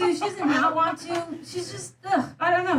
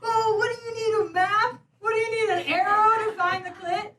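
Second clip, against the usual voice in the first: mocking condescending tone; 6 semitones higher than usual. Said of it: "people act like".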